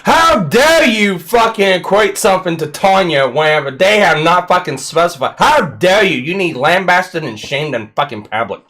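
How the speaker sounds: over-the-top indignant tirade, pushing hard; mock outrage. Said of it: "I know you're joking, but relax".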